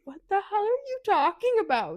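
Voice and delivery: high, loud mock disbelief; acted indignant bafflement. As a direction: shoot back loudly, pitch jumping way up. Baffled reply in acted quarrel.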